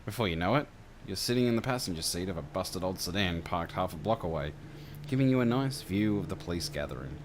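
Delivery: measured second-person game master narration; scene-setting narration. A narrator's reading.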